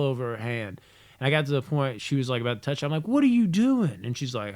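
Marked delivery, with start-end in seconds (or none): 3.1-4.0 high, loud mock scolding; retold scolding. Parent catching a chocolate-handed kid, scolding. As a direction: pitch it up in alarmed parental reproach. Catches child about to touch things.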